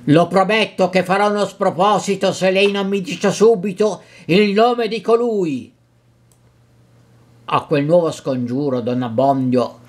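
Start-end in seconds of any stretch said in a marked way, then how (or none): 0.1-5.7 rising threat, higher at the end; angry young man threatening the priest. Acted. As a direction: push him with a menacing demand.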